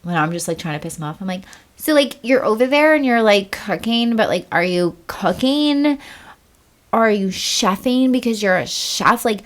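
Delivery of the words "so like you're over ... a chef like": a light airhead act, slow and whiny. Pretend. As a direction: play a ditzy wife asking silly questions to annoy the husband. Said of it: "You gotta do the airhead one day".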